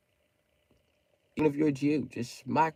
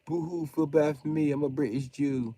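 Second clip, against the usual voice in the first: a touch higher, mock self-pity; mocking whiny voice; 5 semitones higher than usual. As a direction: poke fun at his whining, lightly pitched up. Mocking Jeremy Kyle's whining.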